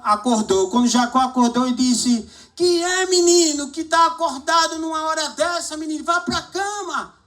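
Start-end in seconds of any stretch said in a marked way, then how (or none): 2.5-7.1 high, gruff, annoyed father woken at night; a father telling his boy off for being up; scolding father. Retold or imitated. (pai bravo, agudo e irritado)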